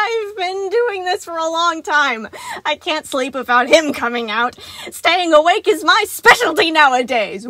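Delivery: high, loud, teetering on tears; a sleepless robot bragging while falling apart; unhinged animatronic. A narrator's reading. Sun boasting to Gregory, high and near tears.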